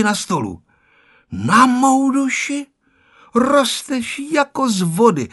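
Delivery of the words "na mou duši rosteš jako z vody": serious. A narrator's reading. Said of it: "souhlasila babička vážně".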